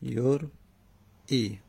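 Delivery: یرئی drawn out slowly, syllable by syllable; slowly spelled out. Shown as a demonstration. Teacher drilling the verb form for students, slow and drawn out. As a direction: stretch یرئی out slowly for the class.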